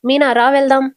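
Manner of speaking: a mild flash of anger; understated angry command. Acted. Balu orders Meena to come along, mildly angry. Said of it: "Balu కోపంగా".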